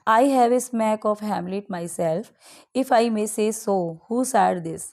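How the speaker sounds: slow, deliberate reading of the poem lines; slow quiz reading. Acted. Teacher reads a quiz question to students, slow and deliberate. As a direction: read the question out slowly for dictation.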